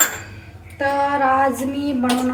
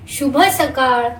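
slow, drawn-out शुभ सकाळ; slow teaching model; much slower than usual. Shown as a demonstration. Mother teaching her child the morning greeting, slowly. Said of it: "मम्मा कसं म्हणते बघ".

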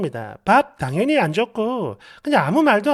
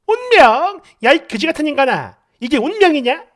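acted furious wife; outraged retort; 3 semitones higher, 4 dB louder than usual. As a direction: start high and loud, incredulous.

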